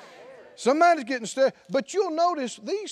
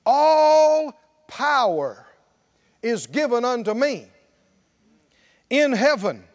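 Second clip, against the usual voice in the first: louder, slow majestic declaration; voice of Jesus; 4 dB louder than usual. Acted. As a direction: proclaim it with solemn authority. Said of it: "Jesus came and spoke to them, saying".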